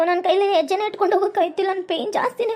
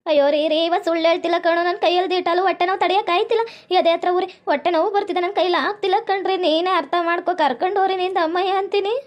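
desperate pleading; 3 semitones lower than usual. Acted. Girl pleading she is sick.

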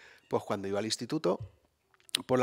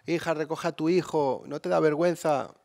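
higher, lightly voiced scolding neighbour; a hint of a disapproving neighbour; nosy neighbour; 4 semitones higher, 5 dB louder than usual. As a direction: neighbour at the window scolding the mother, mild reproach. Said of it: "asomarse a la ventana".

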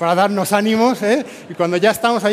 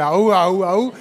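spartan war cry; 3 dB louder, much slower than usual. Retold or imitated. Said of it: "vosotros hacíais lo de".

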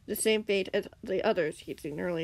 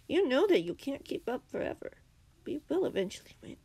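higher, lightly voiced villain; dark villain; 6 semitones higher than usual. A narrator's reading. Villain promises eventual victory, darkly amused. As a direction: taunt them with mild menace. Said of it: "chuckled as he added darkly".

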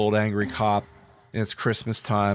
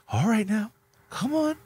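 coaxing a reindeer; 10 semitones higher, faster than usual. Pretend.

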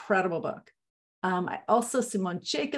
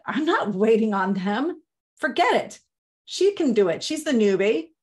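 a touch louder and pushier, palming it off on the newbie; mock bossy waiter shrugging it off; dismissive brush-off; 3 dB louder than usual. Senior waiter pushing job onto newbie.

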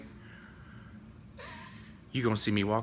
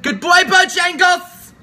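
Stephanie; 15 dB louder, slower than usual. Retold or imitated. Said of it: "She actually has a very feminine voice".

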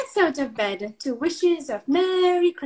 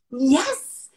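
whispering; 5 dB louder than usual. Acted. Storyteller whispers an aside.

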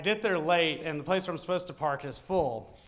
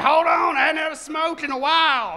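redneck voice; 8 semitones higher, 7 dB louder than usual. Retold or imitated. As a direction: call out lazily for a smoke. Klan member stops to smoke.

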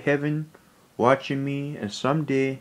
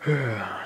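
heavy sigh; 3 semitones lower, 5 dB quieter than usual. Real, not acted. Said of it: "sorry, I'm kind of emotional".

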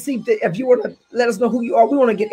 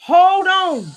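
rising and falling pulpit declaration; fervent sermon voice; preaching. Acted. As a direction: preach it, lean on the key words.

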